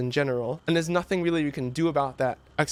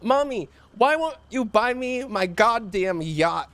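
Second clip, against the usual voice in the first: drawn-out, higher pleading whine; mock crying child; 4 semitones higher than usual. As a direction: mimic little Jimmy begging his mommy. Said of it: "Jimmy starts crying again".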